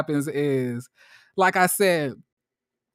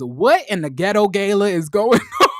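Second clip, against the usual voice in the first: laughing quote; 5 dB louder than usual. Retold or imitated. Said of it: "Winter says".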